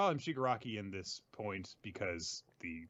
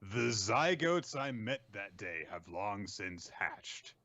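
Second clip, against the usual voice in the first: solemn quote; 3 semitones lower, slower than usual. Retold or imitated. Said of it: "And he says to himself".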